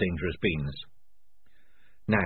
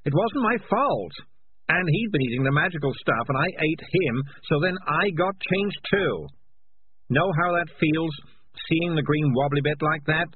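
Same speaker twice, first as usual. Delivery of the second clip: agitated confession; 7 semitones higher than usual. Acted. Morris confesses to the rats he ate their friend, agitated and defensive. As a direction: blurt out the guilt, then push back.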